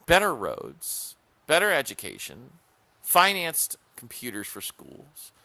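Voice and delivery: proud slow listing; slow emphatic list. Real, not acted. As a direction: lean hard on every achievement. Listing Johnson's achievements emphatically.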